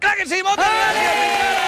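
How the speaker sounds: high, shouted thanks; excited sign-off. Real, not acted. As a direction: cheer the guest and hand over triumphantly. Host hurrahs to close the connection.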